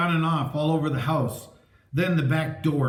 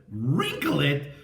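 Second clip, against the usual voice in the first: exclaimed; slower than usual. A narrator's reading. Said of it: "Chris exclaimed".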